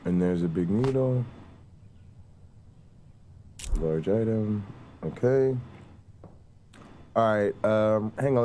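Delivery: talking while chewing gum; words round a wad of gum. Real, not acted. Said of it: "let me spit out my gum".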